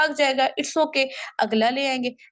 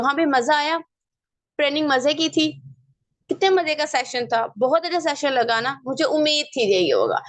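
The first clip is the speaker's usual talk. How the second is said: lightly raised, eager "हाँ भाई मजा आया"; excited caller; 2 semitones higher than usual. Shown as a demonstration. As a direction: cheer up a deflated downline over the phone. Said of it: "उसको call करते ही पूछो".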